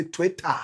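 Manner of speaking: Twitter with a firm t and open ending, Ghanaian style. Shown as a demonstration. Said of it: "But we in Ghana".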